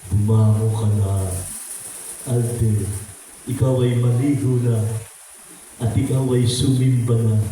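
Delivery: low, firm urging to get up and go to church; a gentle but insistent inner voice; Holy Spirit urging. Retold or imitated. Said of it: "Sasabihin ng Holy Spirit". (Banal na Espiritu na mariing nag-uudyok)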